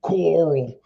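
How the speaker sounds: imitating a British actor's strained American yell; mock Walking Dead father calling. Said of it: "the dude who goes".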